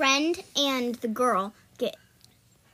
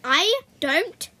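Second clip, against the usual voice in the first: loud, drawn-out word by word; slow, loud objection; slow, emphatic; 3 semitones higher, 8 dB louder, much slower than usual. Real, not acted. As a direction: stretch out every word reluctantly. Balking at a repeat film.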